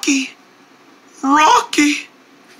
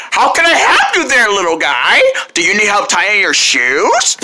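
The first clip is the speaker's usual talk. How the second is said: flamingo lady voice; 2 semitones lower than usual. Acted. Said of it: "I'm not gonna get used to her voice".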